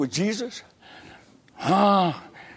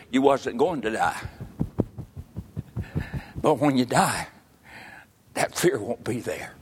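soft, hushed voice of God; lower, softer and gentle, like a whisper from within; still small voice; 9 semitones lower, 8 dB quieter than usual. Retold or imitated. God's inner voice answering a frightened man, hushed and soft. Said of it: "that little still small voice".

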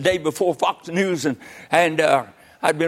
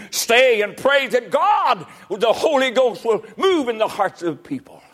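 raised, urgent preacher's appeal; preaching; 6 semitones higher than usual. Real, not acted. Preacher urging people to stay and pray, raised preaching voice. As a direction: press it on the congregation.

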